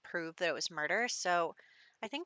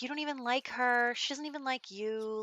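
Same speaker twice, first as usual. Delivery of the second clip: higher-pitched, mildly indignant retort; mock argument; 6 semitones higher than usual. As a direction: argue back as the accused brother. Acted retort in a brothers' quarrel.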